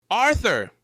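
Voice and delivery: high, loud shocked cry; alarmed cry. Acted. Finds him unconscious.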